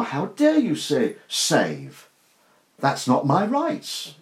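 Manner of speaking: mildly indignant, imitating entitlement; mock arrogance. Preacher mimicking those who refuse to wait, mock arrogance. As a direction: act out a touch of affronted arrogance. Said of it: "The arrogance behind it".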